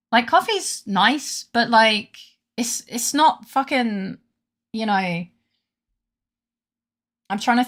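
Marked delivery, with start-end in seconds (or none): 0.1-5.2 ranting. Real, not acted. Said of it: "I'm going on a rant about coffee".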